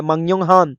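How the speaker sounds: मंग्योंग हान said with ng, ending falling; nasalised sound change. Shown as a demonstration. Teacher confirms the rule with an example, ng in मंग्योंग हान. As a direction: round off with मंग्योंग हान, ng in both first syllables. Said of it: "आवाज इयोंग की हो जाती है".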